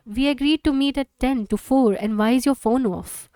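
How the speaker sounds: angry mother raising her voice. Acted. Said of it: "Raises her voice".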